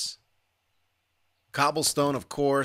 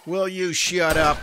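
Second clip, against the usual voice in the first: annoyed; 4 semitones higher, 5 dB louder than usual. Real, not acted. Yelling at groaning zombie.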